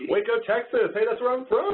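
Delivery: high, bright hometown excitement; light up at seeing your hometown; excited. Real, not acted. Recognizes his hometown in chat.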